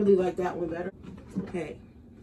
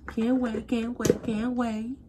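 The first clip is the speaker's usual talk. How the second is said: excited sing-song; 4 semitones higher, slower than usual. Real, not acted. Excited about partner returning.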